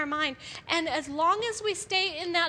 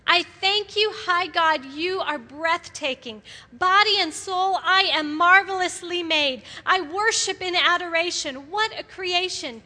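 reading David's praise; 3 dB louder than usual. Retold or imitated. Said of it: "this is King David speaking".

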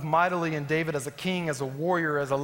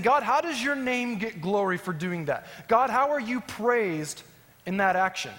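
imitated plea, a touch higher, questioning; pleading with God; 3 semitones higher than usual. Moses asks God about glory, pleading. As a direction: challenge God in an earnest preacher's retelling. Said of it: "This is Moses pleading with God now".

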